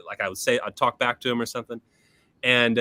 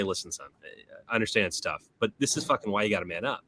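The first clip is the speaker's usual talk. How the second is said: lightly voiced dad, lower and softer at the start; gentle fatherly talk; 4 semitones lower, 4 dB quieter than usual. Father coming to his son later that night, mild fatherly firmness. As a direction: ease in low, like a father explaining. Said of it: "Did he say it like that".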